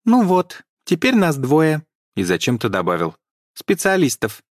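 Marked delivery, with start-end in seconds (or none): 0.0-1.8 high, slow, friendly elf voice; friendly squeaky elf. A narrator's reading. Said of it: "довольно дружелюбно заявил". 3.5-4.4 high squeaky elf add-on. A narrator's reading. Elf adds a word.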